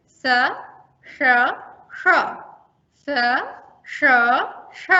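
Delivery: स, श, ष isolated and contrasted; clipped sibilants, one by one; sibilant quiz. Shown as a demonstration. Teacher quizzing trainees on three sibilants. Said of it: "पहचानेंगे कि हमने किसका उच्चारण किया है".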